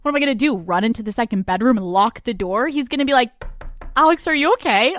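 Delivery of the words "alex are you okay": higher, louder, quick put-on voice; mock boyfriend voice. Boyfriend checking on her through the door, quick and high. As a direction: blurt it fast and high, a nagging roommate.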